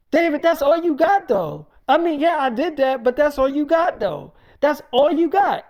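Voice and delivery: defiant challenge. Acted.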